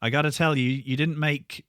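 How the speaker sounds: promoter voice. Retold or imitated. Promoter voiced in band story.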